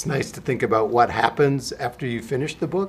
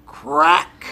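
high, loud sharp crack; dramatic story crack; sudden crack; 7 dB louder than usual. Acted. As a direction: make the egg crack startle them. Egg hatching in the story.

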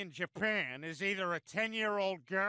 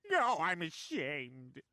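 slow, lowered, drawn-out shame; ashamed; 4 semitones lower, much slower than usual. Acted. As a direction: drag it out, humiliated. Humiliated husband answers a taunt.

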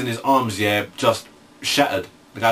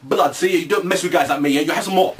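higher, swaggering victory brag; gloating thug; 5 semitones higher than usual. Pretend. Gloating after busting him up, higher swagger. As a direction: strut over the beaten guy. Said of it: "I'll be like".

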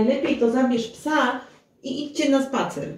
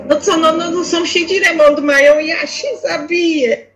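louder, fed up over the drilling; exasperated over noise; 3 semitones higher, 7 dB louder than usual. Acted. Host shouting over the neighbours' renovation, exasperated. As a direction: raise your voice over the racket.

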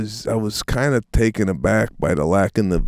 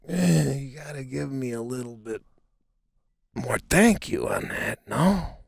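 mock demanding; 6 semitones higher, 6 dB quieter than usual. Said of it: "I was like".

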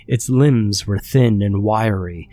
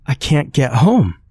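higher and louder, frail desperate plea; frail creature voice; 6 semitones higher, 4 dB louder than usual. A narrator's reading. Dying creature begging the man for help, higher. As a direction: cry out that she is stranded. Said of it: "Her voice was frail and shaky".

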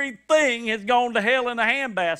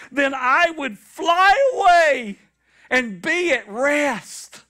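weary longing; 6 semitones higher, 4 dB louder, slower than usual. Retold or imitated. Preacher voices David longing.

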